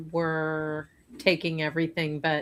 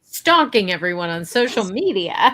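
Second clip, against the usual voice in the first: higher-pitched sarcastic confession; mock boasting; 4 semitones higher, 4 dB louder than usual. Co-host continuing the woman's parody, mock boasting. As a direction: announce it brightly as if it were clever.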